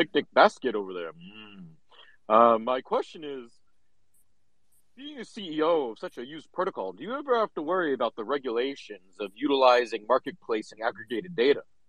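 put-on baritone cartoon bear character voice. Asking a CEO a question during a Q&A, in a lower baritone voice. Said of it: "it's like a lower baritone".

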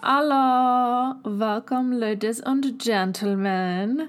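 fake German accent, very slow and drawn out. Jokingly opening an episode, put-on German accent. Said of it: "could you imagine if I did this whole episode in a German accent?".

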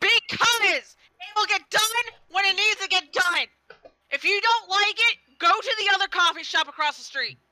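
shrill, very high, loud, fed-up snapping yell. A coffee shop worker in a role-play answers a customer's complaint, yelling at the customer. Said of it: "I am playing someone. She is a coffee shop worker, and she's done with people's shit. / I am playing someone. She is a coffee shop worker, and she's done with people's shit. I love it. That's not a deta".

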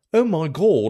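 put-on botched Australian accent, very high, very loud, slow. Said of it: "what the fuck accent is that?".

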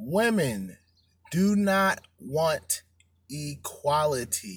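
very slow, halting, word-by-word emphasized delivery. Speaker explaining something to men, said very slowly. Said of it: "I'm going to say this slow".

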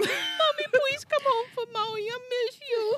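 put-on very high, babyish little-kid voice, baby talk. On what they call a baby talk podcast, asking mommy to come home, in baby talk voice. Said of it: "This is a baby talk podcast".

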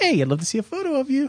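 very high, squeaky voice. Asked how to request a photo, the speaker answers in a Mickey Mouse voice. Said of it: "your mickey mouse voice".

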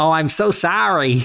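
put-on very slow, drawn-out Boston accent. Recalling friends in Boston reacting to news of moving to St. Louis, imitating friends' Boston accents. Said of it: "in their Boston accents".

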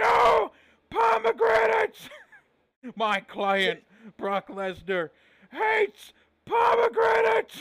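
booming, very high-pitched, shrill, swooping yell. Retelling a wrestling segment where Paul Heyman yells at the Hardys: Paul Heyman yelling impression. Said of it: "as Heyman was yelling to the Hardys".

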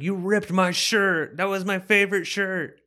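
very high, shrill, drawn-out yell. Retelling a movie fight scene after his shirt is ripped: imitating someone yelling. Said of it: "he's just yelling".

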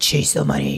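put-on deep voice. Retelling advice someone gave, imitating a deep voice. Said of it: "he said in, like, a deep voice".

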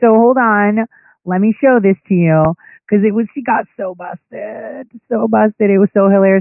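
words breaking up with laughter, giggly. Showing listeners a clip, the speaker keeps laughing while talking. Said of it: "I'm sorry, I keep laughing".

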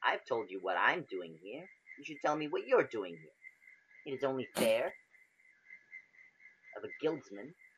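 female cat-folk creature voice. A tabaxi character speaking to a fellow guildsman in a game, in a female tabaxi voice. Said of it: "you can tell that this particular creature is a tabaxi. Female at that".

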